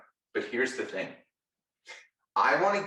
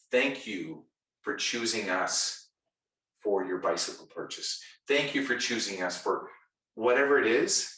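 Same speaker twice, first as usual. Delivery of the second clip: sincere thanks. Shown as a demonstration. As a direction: say it like you mean every word. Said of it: "I would rather hear".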